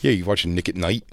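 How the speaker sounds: imitated Philadelphia accent; lightly put-on Philly accent. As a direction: do a guy heckling in Philly-speak. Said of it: "for that accent".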